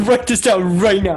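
laughing through the demand. Real, not acted. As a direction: laugh while insisting loudly.

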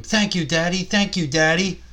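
sons' mock scream of thanks to Daddy. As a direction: squeal it out like delighted little kids. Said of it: "they both scream".

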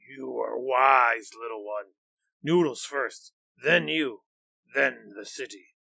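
a beast savouring its plans; pleased monster. Acted. Nyan agrees, slowly.

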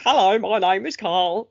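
imitating a clunky, cutesy French accent in English. Carl Barron's bit on how French people hear him, clunky French accent. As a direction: say it like a learner with a thick French accent. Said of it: "a little bit of an accent to their English".

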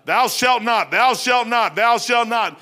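preacher chanting thou shalt not at passersby; street preaching. Shown as a demonstration. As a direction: pound each commandment out. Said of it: "Ten Commandments".

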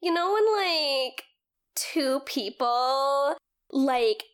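a hint of bubbly fangirl gushing; shipping voice. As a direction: gush about a ship, lightly bubbly. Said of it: "That's the shipping voice".

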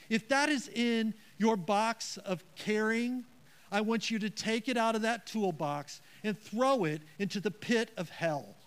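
forceful, emphatic preaching; emphatic warning. Real, not acted. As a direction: drive it home hard. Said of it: "Was that emphatic enough?".

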